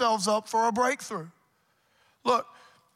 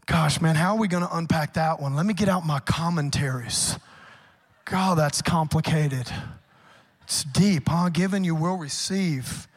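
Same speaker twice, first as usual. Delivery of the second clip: mock bafflement; 5 semitones lower, 4 dB louder than usual. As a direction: lower ironic wonder. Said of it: "ironic mock puzzlement".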